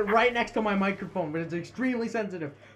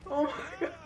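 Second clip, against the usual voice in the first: loud, high frantic yelling; shouting; 8 semitones higher, 9 dB louder than usual. Real, not acted. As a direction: yell at him in a panic. Yelling at teammate in game.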